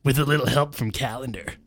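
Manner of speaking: mildly hammed-up bashfulness; bashful. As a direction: grin shyly through it. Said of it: "grinned Simon, bashfully".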